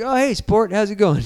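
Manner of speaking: high-pitched imitation of an oblivious dad; putting on a friendly dad; chirpy dad greeting. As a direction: greet the kid like a chummy dad. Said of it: "he's playing the dad role".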